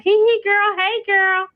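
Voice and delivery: put-on high, giggly hey girl to a friend; casual girlfriend greeting. Mother greeting just another baby mama, high and giggly. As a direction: gush a playful hello to a girlfriend. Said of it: "I'll be like".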